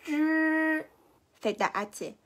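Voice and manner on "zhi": zhi with curled tongue and no air out; unaspirated zhi. Shown as a demonstration. Teacher contrasting zhi with no air. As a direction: hold the breath back on zhi. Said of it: "no sale aire".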